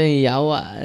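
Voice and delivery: a loud retold curse; mock shout. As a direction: bark the curse out, half acted. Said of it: "Sumiyaw siya". (malakas na pagsigaw)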